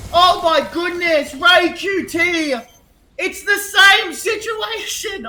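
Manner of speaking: slow, drawn-out disbelief; stunned. Real, not acted. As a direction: stretch it out in awe. Caster stunned after clutch.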